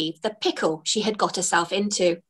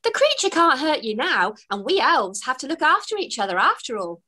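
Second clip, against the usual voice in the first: elf voice; 3 semitones higher than usual. Acted. Elf reassures the fairy.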